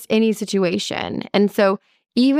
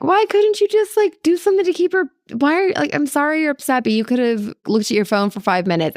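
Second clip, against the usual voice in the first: defensive, exasperated retort; 8 semitones higher than usual. Retold or imitated. Late arrival snapping at a waiting husband, mock exasperated. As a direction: rattle off excuses in a hammed-up huff. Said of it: "Instead of being like".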